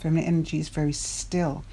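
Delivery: quick line, weight on "still"; stress on still. Shown as a demonstration. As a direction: lean on "still" and let it settle. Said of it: "I'm going to emphasize the word still".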